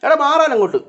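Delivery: loud, high shout to move; shooing a pet. Real, not acted. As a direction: order the cat out of the way. Shooing cat blocking the way. (പൂച്ചയെ ഉറക്കെ വിരട്ടുന്നു)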